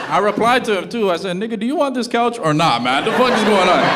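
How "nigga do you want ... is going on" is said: higher, louder fed-up yell; exasperated yell. Retold or imitated. Son answering his father's message, fed-up yell. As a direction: bark it like you're done with this.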